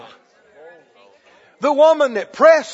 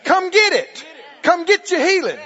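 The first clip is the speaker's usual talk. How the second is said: loud and higher, pressing and insistent; urgent loud call; 4 semitones higher than usual. Retold or imitated. Preacher voicing Jesus calling the crowd forward, shouting. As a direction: call them to come and take it. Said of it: "Or is he saying".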